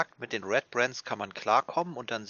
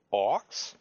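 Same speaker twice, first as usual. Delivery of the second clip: puzzled question. Acted. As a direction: ask it puzzled and unsure. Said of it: "Großes Fragezeichen".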